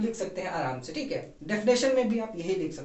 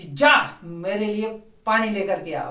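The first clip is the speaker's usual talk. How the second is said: slower, louder scolding command; mock angry order; 4 dB louder, slower than usual. Shown as a demonstration. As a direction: scold a younger sibling firmly. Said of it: "तेज से बोला". (छोटे भाई को गुस्से में डांटते हुए ऊंची आवाज़)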